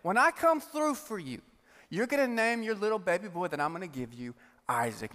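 a lightly voiced teasing God. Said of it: "God says".

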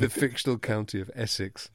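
repeating the wrong Essex with a self-mocking tone; mock repeat of own slip. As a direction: say "Essex" as a jokey echo of the mistake.

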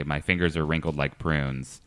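light English accent; a hint of English accent in a walk-through. Shown as a demonstration. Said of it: "switch to an English accent".

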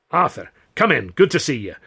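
warm welcome. A narrator's reading. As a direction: welcome him warmly. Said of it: "said Considine warmly".

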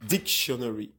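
DICtionary, first syllable punched; stress on first syllable. Shown as a demonstration. Guest explains English accent, dictionary stressed on DIC. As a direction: hit "dic" hard in dictionary. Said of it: "there is an accent on".

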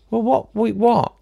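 high, baffled double take on what; startled what. Real, not acted. Host stops reading the email, stunned. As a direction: blurt it out, caught off guard.

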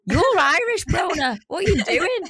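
incredulous. Retold or imitated. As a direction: call out a friend in mock disbelief. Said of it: "we were like".

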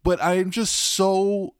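slow, choked with happy emotion; trying not to cry, dragging the words; overcome, stalling mid-sentence; breaking up. Real, not acted. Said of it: "I fucking broke already".

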